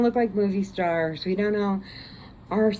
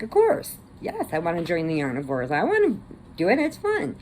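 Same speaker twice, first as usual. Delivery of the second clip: excited; 2 semitones lower than usual. Retold or imitated. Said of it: "So I'm like".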